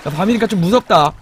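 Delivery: normal talking voice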